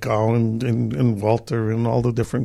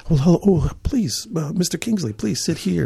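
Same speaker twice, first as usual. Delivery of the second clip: fawning quote; 3 semitones higher, 3 dB quieter than usual. Retold or imitated. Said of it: "everybody's like".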